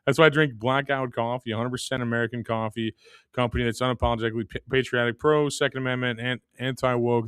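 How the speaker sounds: sponsor read in an even pitch. Acted. Host pitches coffee to listeners, scripted ad read. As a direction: read the sponsor copy straight through.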